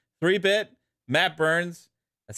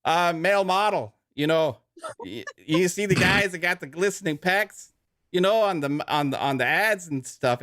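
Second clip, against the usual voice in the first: lightly held mock Canadian ad voice; mock Canadian ad read; Canadian accent; 2 semitones higher than usual. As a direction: keep the joking Canadian read going, eh. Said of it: "Canadian leprechaun".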